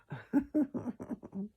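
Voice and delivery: a quick high laugh at her own joke. Real, not acted. Laughing at her own mock scripture voice. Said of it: "It didn't tell us that".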